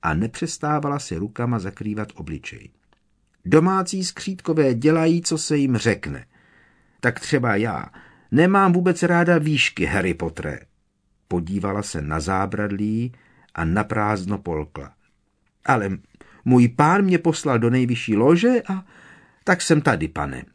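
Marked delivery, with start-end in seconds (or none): 3.4-10.6 high squeaky house-elf voice; elf squeak. A narrator's reading. Elf confides fear of heights. 15.6-20.4 high squeaky house-elf voice; elf squeak. A narrator's reading. Elf voice continues.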